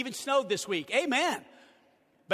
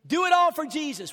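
louder, higher repeat of "Do it all for Jesus"; slogan repeated, stronger; 4 semitones higher, 5 dB louder than usual. Shown as a demonstration. Pastor repeating the slogan to his church, louder. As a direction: repeat it with a push. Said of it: "Our slogan is this".

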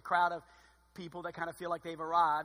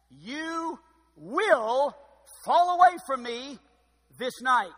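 loud, higher proclaiming voice; voicing Jesus; 5 semitones higher, 8 dB louder, much slower than usual. Preacher voicing Jesus, warning the disciples, loud and high. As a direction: ring it out like a prophet's warning.

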